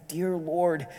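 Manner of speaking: frightened woman praying quietly in a cell; silent prayer. Retold or imitated. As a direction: pray it under the breath. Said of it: "She prays silently".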